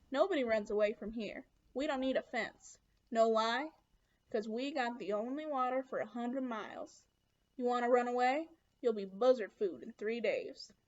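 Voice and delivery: lightly voiced tough camp boss; a hint of a hard-bitten man in charge. Camp boss warns new boy nobody runs away, lightly voiced tough character. Voices Mister Sir in story.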